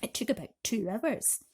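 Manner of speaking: hushed storytelling whisper. A narrator's reading. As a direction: drop to a whisper for the awful part. Narration dropped to whisper.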